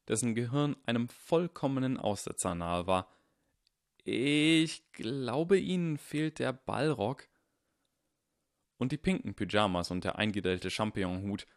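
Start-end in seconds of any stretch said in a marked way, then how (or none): 4.0-7.3 put-on Harry, young and eager, lightly higher; earnest boy insisting he's right; voiced young Harry. Young Harry correcting the headmaster, lightly higher and eager.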